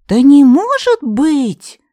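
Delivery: slow, high, loud outraged disbelief; indignant. A narrator's reading. Katerina flattering Yaga, loudly outraged. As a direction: stretch it out, scandalised. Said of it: "Катерина так возмутилась".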